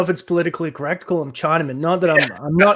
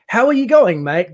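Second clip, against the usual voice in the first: Australian greeting; 4 semitones higher, 4 dB louder than usual. Shown as a demonstration. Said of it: "So when you think about it".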